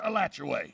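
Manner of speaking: Alachua said uh-LATCH-oo-way; town pronunciation. Shown as a demonstration. Placing the restaurant in town, Alachua with 'way' ending. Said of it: "So what is it, Alachua or Alachua?".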